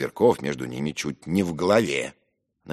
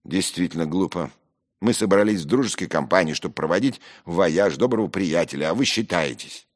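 rude rebuke; 4 semitones higher, 5 dB louder than usual. Acted. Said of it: "грубо обращаясь ко мне одному".

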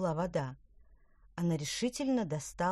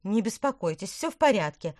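puffing out the words; panting while running; out of breath; 3 semitones higher, 7 dB louder than usual. Acted. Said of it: "пропыхтела Петронелла".

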